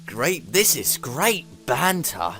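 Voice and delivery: slow, savoured British-gentleman delivery; hammed-up chat-show catchphrase; Alan Partridge. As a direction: stretch it out like a proper British gentleman. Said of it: "'cause he's a proper British gentleman".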